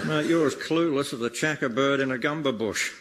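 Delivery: broad mock Australian accent, hammed-up; comedy Australian accent, lightly done. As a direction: lay on a thick Aussie ocker accent. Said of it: "I'm Australian, mate".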